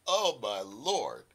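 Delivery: ordinary talk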